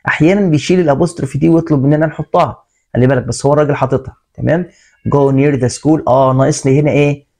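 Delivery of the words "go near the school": slow read-aloud. Shown as a demonstration. Teacher reads sentence aloud.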